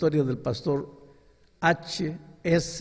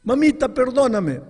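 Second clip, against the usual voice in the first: crying plea; 11 semitones higher, 7 dB louder than usual. Retold or imitated. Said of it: "Él comenzó a llorar".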